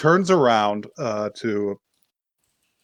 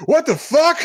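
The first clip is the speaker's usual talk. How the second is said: high-pitched, hammed-up disbelief; mock shocked outburst; 4 dB louder than usual. Brother discovering his sister's DVD, mock shocked outburst. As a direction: imitate a stunned outburst after a beat.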